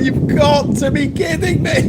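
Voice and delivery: high, slow, drawn-out groan of disbelief; exasperated disbelief. Retold or imitated. Traveller seeing her bag missing from the unloaded luggage, exasperated. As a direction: let the whole line sag in mock despair. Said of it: "and I was like".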